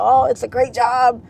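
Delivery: a hint of an old-school mom. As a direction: play mom selling the steady job. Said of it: "old school".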